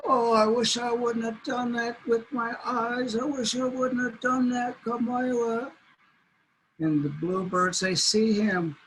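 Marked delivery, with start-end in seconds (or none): 0.0-5.7 higher, rueful lament; regretful coyote. Acted. Coyote regrets his choice, higher and rueful. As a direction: moan with regret. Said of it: "He said".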